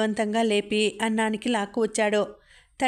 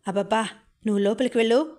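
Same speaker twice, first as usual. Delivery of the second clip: exasperated husband; faster than usual. A narrator's reading. Husband pushing wife into room.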